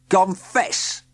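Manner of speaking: lightly voiced demanding inspector; a hint of a stern demand. A narrator's reading. Inspector confronting Heathcliff, mildly stern. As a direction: press him to admit it.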